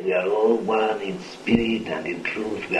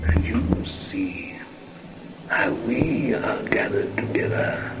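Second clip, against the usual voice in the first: slow, hushed and solemn, half whispered; solemn whispered sermon; slower than usual. Acted. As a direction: intone it like a spirit blessing the circle. Spirit closes with blessing.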